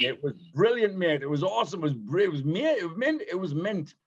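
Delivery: teasing fake Brit; mock British slang. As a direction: play up the British mate talk. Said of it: "You're British, for God's sake".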